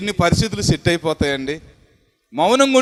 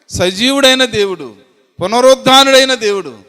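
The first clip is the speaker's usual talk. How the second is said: rising praise of a living God; preaching litany; 4 dB louder than usual. Acted. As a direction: build each line like a proclamation. Preacher lists God's attributes. (దేవుని స్తుతి ప్రసంగం)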